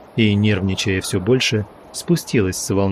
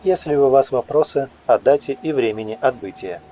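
higher automated menu voice; phone menu voice; 3 semitones higher than usual. Acted. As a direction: announce options like a recording. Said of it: "другой голос, более молодой и тёплый".

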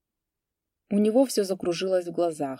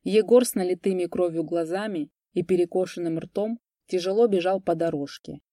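ordinary delivery

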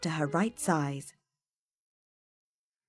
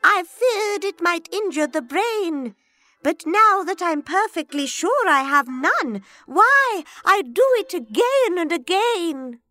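put-on old man voice; 12 semitones higher, 9 dB louder than usual. A narrator's reading. Father William voiced in poem.

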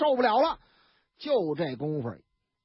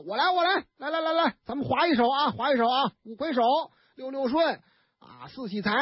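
boisterous drinking-game call; 4 semitones higher than usual. Acted. Guo Dasao calls drinking game.

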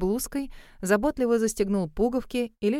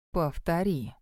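low, quiet steel; calm menace, lower and softer; steely command; 4 semitones lower, 4 dB quieter, slower than usual. A narrator's reading. Grove orders the choking ex, quiet and steely. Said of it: "стальные нотки".

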